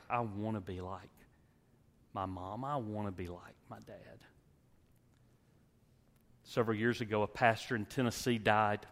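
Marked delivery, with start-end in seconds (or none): 0.1-4.2 put-on soft child's wish. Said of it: "where they say".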